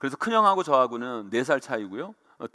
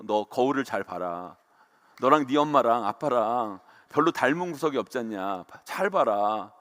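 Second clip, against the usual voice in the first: mock-serious uncle; 3 semitones lower than usual. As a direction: draw it out gravely, as a teasing uncle would. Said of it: "외삼촌이 또 심각하게 그래요". (심각한 척 낮고 느리게 흉내 내는 말투)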